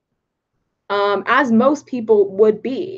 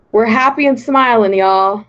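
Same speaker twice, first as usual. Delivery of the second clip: put-on louder, playful Southern accent; 7 dB louder than usual. Streamer playing up a Southern accent for chat. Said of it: "now I'm speaking in a Southern accent".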